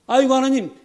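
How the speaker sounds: high, loud wailing complaint; whining resentment. Acted. Preacher voicing Israelites griping in the desert, high whining moan. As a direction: moan at God like a spoiled grumbler. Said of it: "라고 원망을 합니다".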